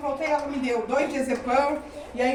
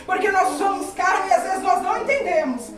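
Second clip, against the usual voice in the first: raised-voice testimony preaching; fervent preaching; 3 semitones higher, 4 dB louder than usual. Real, not acted. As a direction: press the testimony home with fervour. (testemunho pregado com fervor)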